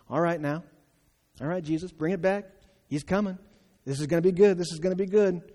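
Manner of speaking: eager, rubbing hands at the story; gleeful anticipation. Pretend. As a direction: Pharisee relishing the boy's punishment, gleeful. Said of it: "You hear the responses".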